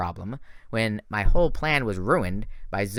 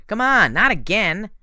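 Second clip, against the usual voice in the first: higher, louder, slow pleading; nervous plea; 11 semitones higher, 8 dB louder, slower than usual. A narrator's reading. Grover pleading with the quarreling girls, high and nervous. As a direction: beg them to stop. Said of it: "Grover said nervously".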